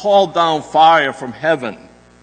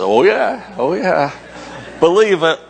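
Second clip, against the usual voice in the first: mock insistent; 4 semitones higher than usual. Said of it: "And I say".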